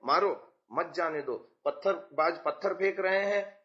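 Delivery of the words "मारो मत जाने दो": मारो set apart, मत जाने दो joined and falling; mild command, मत grouped with जाने दो; break after मारो. Acted. Teacher acting out response to a terrorist, break after मारो. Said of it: "आतंकवादी आ रहा है".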